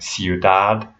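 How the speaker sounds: "ciudad" as syoo-DAHD; weight on dad in "ciudad"; Spanish "ciudad", end stressed; stress on last syllable. Shown as a demonstration. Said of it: "you stress the last syllable".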